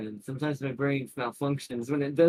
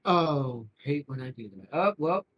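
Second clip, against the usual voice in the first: talking through hiccups; a hiccup jolts the words; 2 semitones lower than usual. Real, not acted. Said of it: "now I've got the hiccups".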